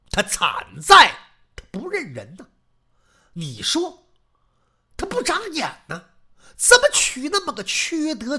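loud, heated cursing rant; old maid spitting curses in a rage; worked-up tirade. Acted. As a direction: servant cursing the heartless neighbour's wife. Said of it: "你怎么这么激动".

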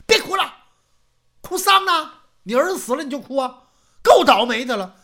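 high and loud, fast in the middle; impatient scolding. Acted. Old man scolding his weeping wife, high and loud. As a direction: snap at her to stop crying. Husband snaps at crying wife.

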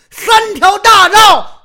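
high, loud and drawn out; mock shout. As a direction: belt it out, slowly, with swagger. Boasting swagger, shouted.

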